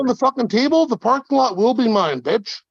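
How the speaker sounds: slurred, fast taunting threats; belligerent drunk. Acted. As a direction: spit out the threats like a bar drunk. Trash talk, fighting threats.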